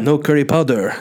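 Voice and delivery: imitated French-accented English; lightly hammed-up French accent. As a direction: mimic a French housemate correcting you. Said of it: "that's a weird accent".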